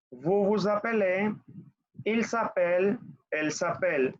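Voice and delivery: each French form said clearly for the class to echo, "je m'appelle" with a rising end; teacher modelling French verb forms to repeat; model conjugation for repeating. Shown as a demonstration.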